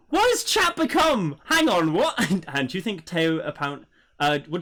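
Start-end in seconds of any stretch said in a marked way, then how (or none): 0.1-2.1 high, loud, drawn-out disbelief; baffled outburst. Real, not acted. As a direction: react in loud, squealing bafflement at the chat. Reacts in shock to chat.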